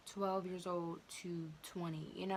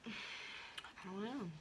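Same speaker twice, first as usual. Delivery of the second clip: tearful; 3 semitones higher, 5 dB quieter, much slower than usual. Retold or imitated. Answering mom through tears.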